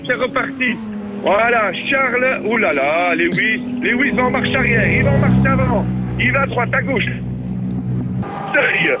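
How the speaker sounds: commentateur sportif qui s'emballe, rythme vif; commentaire de course en direct. Acted. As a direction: fais vivre la course comme à la radio. (commentaire de course animé)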